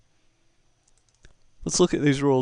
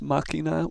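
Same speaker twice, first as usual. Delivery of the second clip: máquina with the first syllable "má" stressed; 3 semitones higher than usual. Shown as a demonstration. Teacher explaining the written accent, stress on MÁ. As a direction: lean on the opening "má" of máquina. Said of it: "emphasis on the first A".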